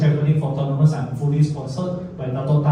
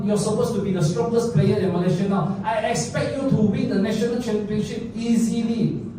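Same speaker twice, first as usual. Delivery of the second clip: higher-pitched mock boss voice, lightly done; a hint of a demanding patron; imitating Dato' Tan; 6 semitones higher than usual. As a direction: quote the sponsor's high expectations in a raised voice. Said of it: "He said, "Oh, you came".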